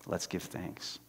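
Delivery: breathy whisper, very soft. Acted. Betsy urging thanks in the camp, whispered. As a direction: hush it like a secret. Whispered quote, story climax.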